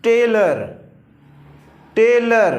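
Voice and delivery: टेलर with a clear "ər" ending; टेलर said "te-lər", not "te-lor"; pronouncing tailor. Shown as a demonstration. Teacher models टेलर for the class. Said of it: "अर आ रहा है".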